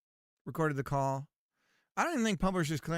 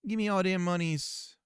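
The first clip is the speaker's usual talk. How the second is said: put-on terrible Jamaican accent. Scammer demanding the monies, bad Jamaican accent. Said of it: "my terrible Jamaican accent".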